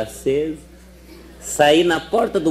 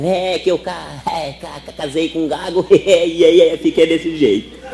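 stuttering woman; 2 semitones higher than usual. Acted. Gaga conta que casou com gago.

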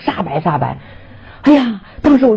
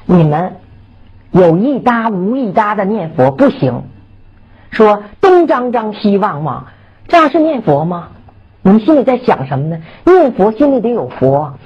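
stern admonishment. Retold or imitated. Devotee risen from a faint rebuking fellow chanters, sternly. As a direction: take the lax chanters to task, deliberately. Retold scolding of lax chanters.

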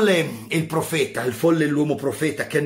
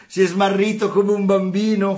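higher, louder jeering question; mocking shout; 6 semitones higher, 5 dB louder than usual. Mocking unbelievers jeer at the madman, mock shout. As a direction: taunt him as the crowd laughs. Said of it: "gridavano e ridevano".

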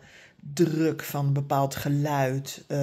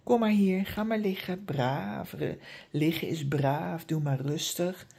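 very calm asking; 3 dB quieter than usual. Shown as a demonstration. Trainer demonstrating calm repeated commands to a restless dog, soft and reassuring. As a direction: lull the dog into lying down. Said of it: "Dus vraag heel rustig".

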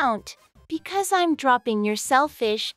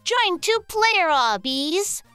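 slow, higher announcer read; 5 semitones higher, slower than usual. Acted. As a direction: read it like a game title card. Caption-style game announcement.

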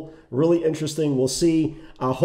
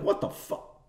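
softer, breathy disbelief under the breath; stunned whisper; 9 dB quieter than usual. Retold or imitated. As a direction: whisper it in shock. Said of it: "You're like".

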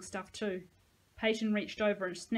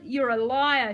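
loud, high accusing shout; furious shout; 4 semitones higher, 11 dB louder, slower than usual. A narrator's reading. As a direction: bark it out in rage. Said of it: "he shouted".

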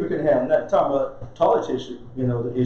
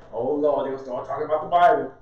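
mock relatives groaning; 2 semitones lower than usual. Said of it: "You know".

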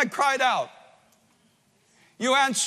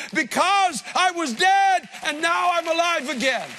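Lazarus rejoicing; 4 semitones higher than usual. Acted. Lazarus greeting Jesus from the tomb, a joyful raised cry. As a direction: burst out in amazed relief, pitched up. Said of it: "the first thing out of his mouth was".

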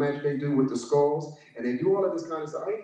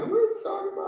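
mock disbelief; faster than usual. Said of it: "And I'm like".

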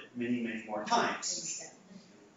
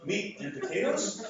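a little slow and higher, first option read out; slow test reading; 8 semitones higher than usual. Shown as a demonstration. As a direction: present the first choice deliberately. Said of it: "I'm gonna give you a second example now".

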